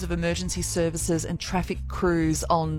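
radio traffic bulletin read; traffic report. Real, not acted. Presenter telling motorists of a highway closure, traffic-report read.

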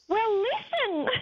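put-on high, slow little girl's voice through laughter; child voice. Granddaughter telling blind Nana to listen, high and slow with a laugh. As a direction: coax Nana like a patient toddler. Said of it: "She said".

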